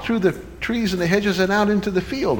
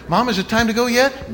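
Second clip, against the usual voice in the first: lightly voiced eager boy, higher pitch; a hint of a pestering kid; impatient child; 6 semitones higher than usual. Impatient boy nagging his mother in story.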